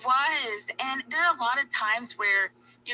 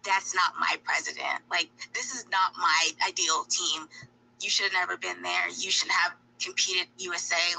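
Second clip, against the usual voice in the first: whispered mock hater; imitating online critics under breath; hateful critics; 2 semitones lower than usual. Mocking the haters to the athlete. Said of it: "like how people say".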